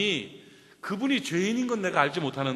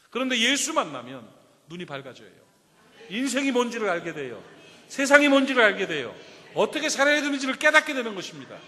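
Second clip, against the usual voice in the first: higher and louder with each line; rising preaching; 4 semitones higher, 6 dB louder than usual. Acted. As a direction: build to a triumphant peak. Preaching build. (점점 고조되는 설교)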